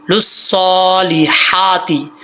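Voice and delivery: लुस्सौलिहाती with long held vowels and a thin breathed हा; model recitation. Shown as a demonstration. Teacher models the verse word for learners, slow careful recitation. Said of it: "यहाँ पे हा बारीक है".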